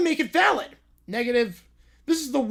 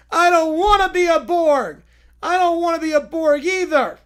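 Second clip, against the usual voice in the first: crying; 5 semitones higher, 6 dB louder than usual. Acted. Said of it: "Too much crying".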